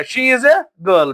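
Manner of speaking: put-on she is a girl, slow, a stressed. Shown as a demonstration. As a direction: lean on the little word a. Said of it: "यहाँ मैंने क्या बताया". ('a' पर ज़ोर देकर धीरे से)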